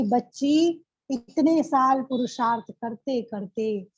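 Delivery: slow, deliberate fatherly words; slow tender blessing. Retold or imitated. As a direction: bless her slowly and tenderly. Baba's solemn message. (बाबा का धीमा, स्नेह भरा आशीर्वाद)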